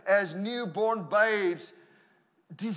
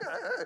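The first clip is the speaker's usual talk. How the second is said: high-pitched startled little noise; mock yelp of being overwhelmed; startled grunt; 13 semitones higher than usual. Young man being prayed over intensely, mock startled yelp. Imitates his reaction to the prayer.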